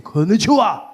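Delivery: punchy powerful greeting; forceful mock greeting; strong Japanese greeting. Shown as a demonstration. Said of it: "Even the greeting ... Power".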